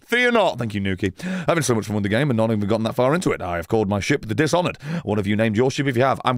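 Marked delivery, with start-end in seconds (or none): 0.0-0.6 mock heroic. Reassuring chat heroically.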